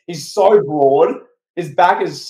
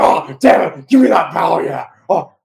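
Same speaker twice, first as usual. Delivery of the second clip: imitated seething, hushed anger; hammed-up angry boss on a headset; 4 dB louder than usual. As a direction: curse under pressure, mock furious. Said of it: "he's like in an angry hush tone".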